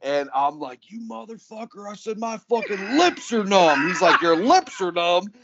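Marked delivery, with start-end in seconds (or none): 0.9-3.9 indignant complaint. Retold or imitated. Retold quarrel after prank shock. 4.2-5.3 high, drawn-out amused disbelief; incredulous question. Retold or imitated. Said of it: "And he's crying".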